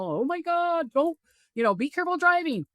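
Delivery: high, fretful worried-mother voice; emotional mom. Retold or imitated. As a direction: fuss over him like an anxious mom. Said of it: "mom that's emotional".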